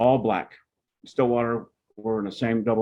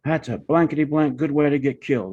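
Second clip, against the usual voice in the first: angry cussing; 5 semitones higher, 3 dB louder than usual. Retold or imitated. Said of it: "He's cussing".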